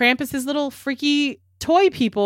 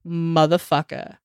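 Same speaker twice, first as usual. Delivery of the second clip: angry cookie creature; 4 semitones lower than usual. Acted. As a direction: play the furious bitten cookie, dragging it out low. An angry cookie monster attacks.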